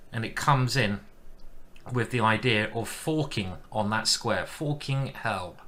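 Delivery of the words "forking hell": slow West Country drawl; Somerset accent. Pretend. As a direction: say it like a Somerset farmer. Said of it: "A bit of Somerset talk for you there".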